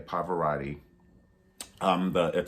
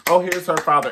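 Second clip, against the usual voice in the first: imitating the excited crowd, higher and louder; mock crowd cheer; 9 semitones higher, 9 dB louder than usual. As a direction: mimic the fans calling out.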